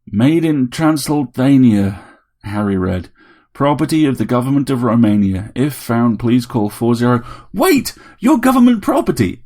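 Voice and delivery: reading aloud then shocked; Harry reading the stamp. A narrator's reading. Harry reading the robot's stamp, then exclaiming.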